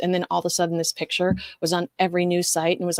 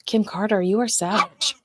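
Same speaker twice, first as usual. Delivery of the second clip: gasp. Real, not acted. Gasps at a viewer's comment.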